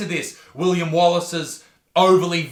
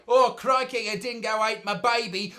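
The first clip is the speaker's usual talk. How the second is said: higher-pitched mock Australian accent; put-on Australian accent; 4 semitones higher, 3 dB quieter than usual. Host mimicking people joking about dingoes, mock Australian accent. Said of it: "put on an Australian accent and say".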